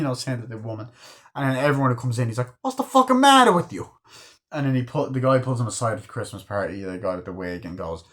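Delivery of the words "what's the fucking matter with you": hammed-up gangster rage; furious shout. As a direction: scream it high and loud. Yelling at everyone who comes in.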